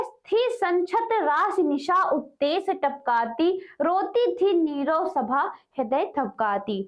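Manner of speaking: slow, deliberate reading of poetry; measured poem reading, pausing between lines; verse recitation. Acted. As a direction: draw out each phrase of the verse. Reads verse aloud.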